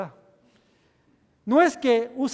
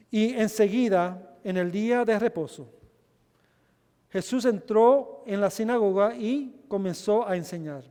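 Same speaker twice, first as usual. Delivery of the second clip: scripture reading. Acted. Preacher reading scripture aloud to church, proclaiming. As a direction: proclaim the Bible text to the congregation. Reads Mark aloud in Spanish.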